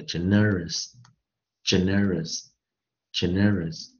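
"generous" repeated slowly as a stress model; stress on a named syllable. Shown as a demonstration. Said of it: "重音在二音节".

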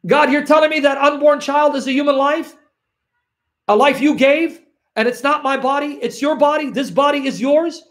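a hint of a sinner insisting it's their body; defiant sinner.

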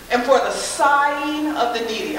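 slowly. Shown as a demonstration. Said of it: "I have to say that word slowly".

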